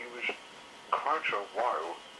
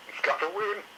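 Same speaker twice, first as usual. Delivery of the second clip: put-on young dinosaur yelling encouragement; excited yell; 11 semitones higher than usual. A narrator's reading. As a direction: cheer Grandpa on from the sidelines. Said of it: "yelled Moss Chops excitedly".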